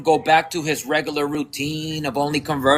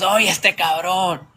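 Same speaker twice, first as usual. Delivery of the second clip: slow, drawn-out teasing exclamation; amused brush-off; slower than usual. Retold or imitated. Man answering what he takes for a joke, amused. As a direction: stretch it out like he can't be serious. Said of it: "feels like I'm kidding".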